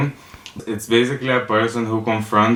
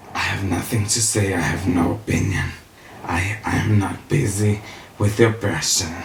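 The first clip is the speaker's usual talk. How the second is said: mock detached bystander; 4 dB quieter than usual. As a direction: play someone staying out of it, understated. Voices the detached silent bystander.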